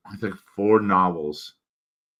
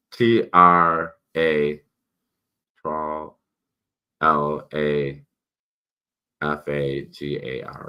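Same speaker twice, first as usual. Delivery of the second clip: spelling it out; 3 dB louder, slower than usual. Real, not acted. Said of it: "my mouth is swollen".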